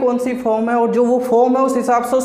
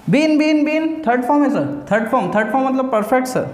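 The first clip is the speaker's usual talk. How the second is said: student answering sir. Pretend. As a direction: rattle off the answer like a keen pupil.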